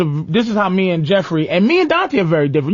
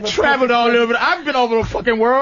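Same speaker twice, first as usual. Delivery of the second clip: put-on higher, laughing French Colombian accent; mocking French Colombian accent; 6 semitones higher than usual. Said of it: "She just come in here".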